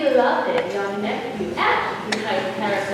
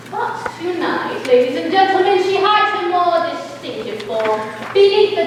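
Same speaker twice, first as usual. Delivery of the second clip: announcer voice; 5 semitones higher, 3 dB louder than usual. Acted. Announcer addressing the audience.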